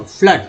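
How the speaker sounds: फ्लड with a short "uh" vowel; double O as uh. Shown as a demonstration. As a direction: say फ्लड rhyming with mud. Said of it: "double ओ का उच्चारण अ के रूप में हुआ".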